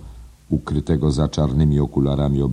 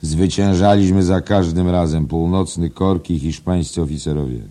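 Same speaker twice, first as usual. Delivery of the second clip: raised, rousing declamation; called out; 4 semitones higher, 6 dB louder than usual. A narrator's reading. Editor boasting of old victories, calling out. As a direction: start high and loud, easing slightly. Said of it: "zawołał naczelny".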